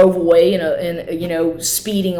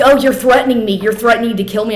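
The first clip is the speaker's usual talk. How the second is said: higher, louder mocking quote; mocking his accusation; 4 semitones higher, 4 dB louder, faster than usual. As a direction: parrot his outraged accusation. Quoting the man's accusation.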